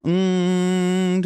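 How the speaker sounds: buzzing nasal hum; nasal hum demo. Shown as a demonstration. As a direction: hum through the nose. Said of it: "using this N G sound".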